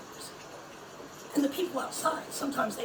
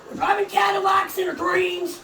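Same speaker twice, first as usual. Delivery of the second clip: shouted lyric; 5 semitones higher, 5 dB louder than usual. Shown as a demonstration. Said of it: "Told you about them".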